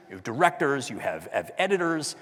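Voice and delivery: normal talking voice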